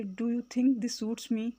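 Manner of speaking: slow question Do you think this suits me; slow teacher demo; slow, careful model. Shown as a demonstration. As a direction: say it slowly for learners. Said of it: "اس طرح سے بولیں گے".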